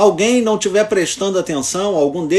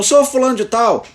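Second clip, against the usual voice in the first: higher-pitched call by title; raised tone of voice; 4 semitones higher than usual. Retold or imitated. Lawyer calls a dozing judge by title, raised tone of voice. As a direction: lift your pitch to summon his attention. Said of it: "eu altero o tom de voz".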